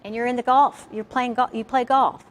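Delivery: lively mock outrage at his question; retold indignant reply. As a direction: play up the offended golfer. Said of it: "I said".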